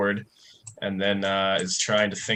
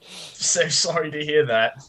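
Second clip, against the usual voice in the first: much higher, small and pleading; pitiful lost wanderer; 7 semitones higher, 5 dB louder, slower than usual. Acted. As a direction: play a tiny lost soul begging for sympathy. Player voices Raptor.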